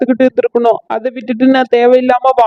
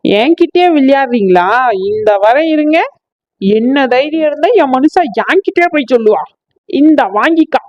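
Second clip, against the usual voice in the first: furious wife; 4 semitones higher than usual. Acted. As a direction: yell at the husband.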